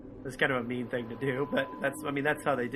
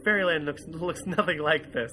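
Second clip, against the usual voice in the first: mock insistence; 4 semitones higher, 4 dB louder than usual. Podcaster quoting the Doctor's dismissive reply, emphatic. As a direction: lay down the law, deadpan. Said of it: "He's like".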